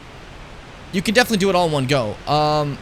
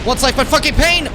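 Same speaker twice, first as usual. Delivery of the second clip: high, loud mock-tragic cry; dramatic lament; 11 semitones higher, 5 dB louder than usual. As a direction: wail it like a tragic hero.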